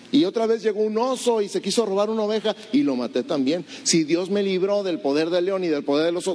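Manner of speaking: put-on a boy sure of his victories; lightly voiced eager boy; confident young David. David insisting to the king.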